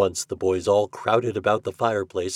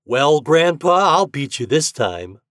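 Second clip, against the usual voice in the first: raised, cocky challenge; boasting; 6 semitones higher, 6 dB louder than usual. A narrator's reading. Toad challenges Lynn at taffy pulling, boasting. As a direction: boast to your rival, opening loud and slow. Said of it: "boasted Toad".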